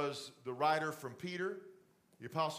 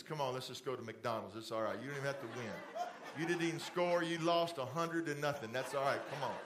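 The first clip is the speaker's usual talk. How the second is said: soothing dad; 5 semitones lower, faster than usual. Retold or imitated. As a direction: ease the kids down gently after a loss. Dad consoling kids after losing.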